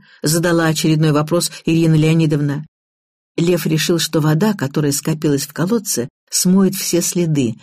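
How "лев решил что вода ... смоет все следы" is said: usual speaking voice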